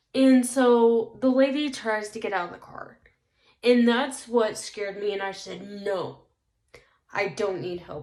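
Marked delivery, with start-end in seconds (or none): 5.6-8.0 deep, lowered, soft put-on voice. Retelling telling a stranger in a truck she needs no help: deep voice. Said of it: "I did it in a, like, deep voice".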